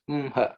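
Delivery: umha with m ahead of h; flipped pronunciation. Shown as a demonstration. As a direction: close on the m, then breathe out ha in umha. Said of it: "flip it around".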